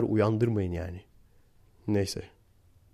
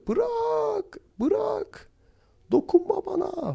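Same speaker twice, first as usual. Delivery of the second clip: much higher falsetto imitating a woman pushing a man away; woman's voice; much slower than usual. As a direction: squeak it out like the drunk girlfriend. Voicing the woman in quarrel. (kadını taklit eden çok ince falset ses)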